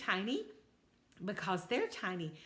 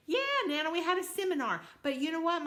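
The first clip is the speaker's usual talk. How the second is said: high, louder toad voice; eager little toad; 8 semitones higher, 4 dB louder, faster than usual. Acted. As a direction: insist happily, all wide eyes. Toad insists on seminar.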